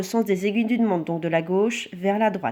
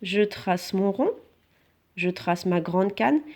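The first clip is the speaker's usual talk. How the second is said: slow dictation; 3 dB quieter, slower than usual. Shown as a demonstration. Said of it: "Alors, je trace la canne".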